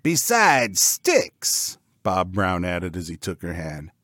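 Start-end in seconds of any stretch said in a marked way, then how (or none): 0.0-1.8 high, slow pig voice; cocky high-voiced cartoon pig; boastful pig. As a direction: draw it out like a showy pig. Pig flirting, adding to boast.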